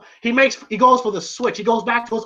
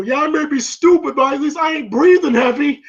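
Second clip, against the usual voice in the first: higher, defiant comeback; retold taunt; 4 semitones higher than usual. Rocky answering the insult, mock defiance. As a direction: imitate a boxer talking back.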